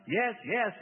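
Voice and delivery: high, loud wail. A narrator's reading. Demon admits it to Bob, wailing. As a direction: wail the answer out. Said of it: "wailed Reuben".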